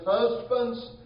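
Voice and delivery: "Husbands" pitched high, called out; calling out a command. Shown as a demonstration. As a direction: call "Husbands" high to grab them. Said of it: "here is another command".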